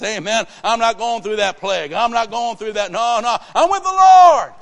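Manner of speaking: loud, high declaration building to a full shout; triumphant preacher. Retold or imitated. Preacher answers banker why he is happy, exultant shouting. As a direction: build relentlessly to a jubilant yell.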